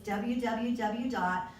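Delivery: dictating the website slowly; slow and clear. Shown as a demonstration. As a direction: spell it out so they can write it down. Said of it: "my website is real easy".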